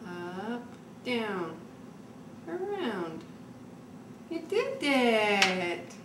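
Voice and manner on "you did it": slow, drawn-out praise; proud praise. Real, not acted. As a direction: stretch it out with pride. Mother praising slowly.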